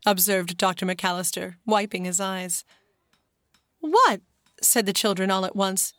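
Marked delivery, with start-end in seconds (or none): 3.8-4.2 surprised. Acted. Children cry out together.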